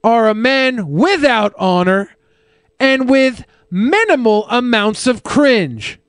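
slow, pompous proclamation, barely voiced as the goat; slow, mock-formal goat's letter; mock solemn letter reading. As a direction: read the insult like a grand decree. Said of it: "read you this message from Digby".

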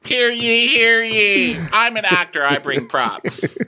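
high loud proclamation voice; town crier. Retold or imitated. Pulls out a gavel, proclaims.

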